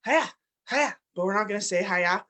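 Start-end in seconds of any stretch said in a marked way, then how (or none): 0.0-1.0 karate yell. Pretend. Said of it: "You're like".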